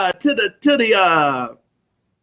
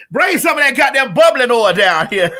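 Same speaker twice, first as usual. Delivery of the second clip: mock holler; 4 dB louder than usual. Hollering for blessing oil.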